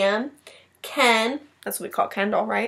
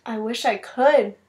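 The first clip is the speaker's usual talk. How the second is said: miserable. Acted. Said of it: "thought Chrysanthemum miserably".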